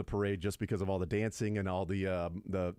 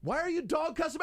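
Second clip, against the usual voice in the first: mock Nagy voice.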